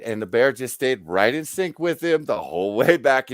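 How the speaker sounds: ordinary delivery, nothing marked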